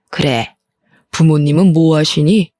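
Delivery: low, cool interrogating voice; stern mother-in-law. Acted. Mother-in-law sizing up the bride at first meeting, stern and low.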